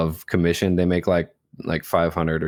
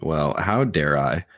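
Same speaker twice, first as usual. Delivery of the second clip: slow, mock-indignant how dare I; mock offended; 3 semitones lower, slower than usual. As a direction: pretend to be deeply insulted. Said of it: "mock offence at blame".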